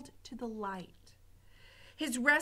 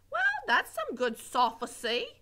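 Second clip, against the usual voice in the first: simple Mig voice; 4 semitones higher, 4 dB louder than usual. Acted. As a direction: admire the big word dimly. Mig misquotes word.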